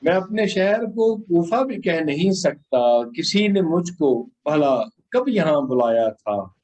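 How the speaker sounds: measured, solemn ghazal delivery; poetry recitation. Acted.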